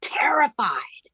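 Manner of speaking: breathy whisper on one word; whispered terrified. Retold or imitated. Whispering to her healer, retelling a patient's fear. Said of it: "And she said".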